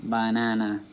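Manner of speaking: Banana drawn on its middle syllable, "ba-NA-na"; stress in the middle. Shown as a demonstration. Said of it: "You know what's in the middle".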